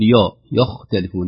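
يختلفون with a thick ي; wrong, heavy ي. Shown as a demonstration. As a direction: show the ي made heavy in يختلفون. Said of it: "نفخم الياء".

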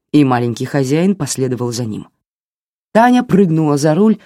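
usual speaking voice

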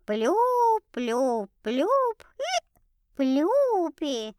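put-on slow, ingratiating drunk coo; tipsy fawning. A narrator's reading. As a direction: fawn over him, a bit drunk. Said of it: "Это опять была я, заискивающая и пьяненько".

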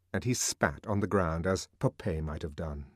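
usual speaking voice

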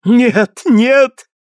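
high, loud hoarse no; hoarse scream. A narrator's reading. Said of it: "кричала хрипло". (хриплый отчаянный крик, голос выше)

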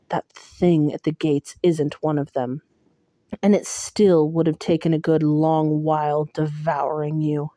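a hint of a low, cold Tamlin. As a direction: scold her coolly from above.

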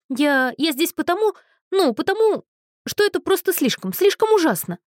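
high, sobbing voice rising in despair; tearful girl. Acted. Weeping girl tells a stranger her trouble, high and tearful. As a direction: wail it out between sobs.

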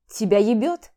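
loud, rude retort. Acted. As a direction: brush her off rudely. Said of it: "грубил я". (грубо и громко)

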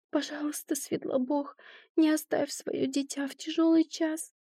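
high, breathless whispered plea; whispered prayer. Acted. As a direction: pray in a desperate whisper. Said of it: "Взмолилась Пресветлому".

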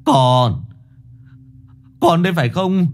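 put-on halting, rising old man's stammer. A narrator's reading. Old father stammering to his son's ghost. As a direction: stumble over the words in shock. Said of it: "Lão Kiến lắp bắp".

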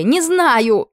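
high, loud despairing shout; desperate cry. A narrator's reading. Queen cries out to the duke shaking her, high desperate shout. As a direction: scream it out in despair. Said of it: "в отчаянии выкрикнула Мария".

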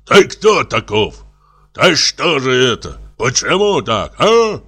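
gendarme barking questions at the suspect; sharp, shrill interrogation; piercing shout. Acted. Gendarme yells at Serapion during the interrogation, piercing shout. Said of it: "кричит пронзительным голосом".

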